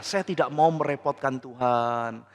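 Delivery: a hint of the king's honeyed piety; sweet-talking. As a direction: sound sweet but insincere. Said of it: "ngomongnya tuh manis".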